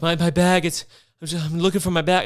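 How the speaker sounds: mock panic. Panicked self quoted on bus.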